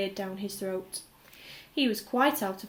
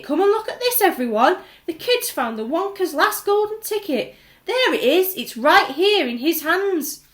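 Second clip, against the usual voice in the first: loud, higher, jubilant shouting; excited shouting; 8 semitones higher, 10 dB louder than usual. A narrator's reading. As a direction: call the whole street over, thrilled. Shopkeeper shouting to the crowd.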